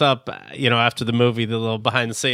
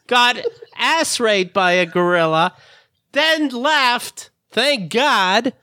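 mocking a dupe's voice, high and excited; 8 semitones higher, slower than usual. Friend mocking a tricked show participant, high mock voice. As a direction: play a gullible dupe, squeaky and rushing.

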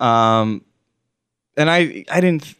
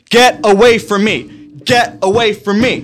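high, loud mock scream; imitated screaming; 9 semitones higher, 6 dB louder than usual. Retelling man slamming his hood at strangers, imitated screaming. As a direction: holler it like the panicked man being retold. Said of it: "screaming, like".

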